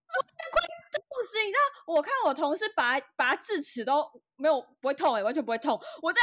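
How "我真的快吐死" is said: half-crying complaint. Retold or imitated. Recalling crying at dentist.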